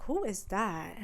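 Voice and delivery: awed whisper. Retold or imitated. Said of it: "She's like".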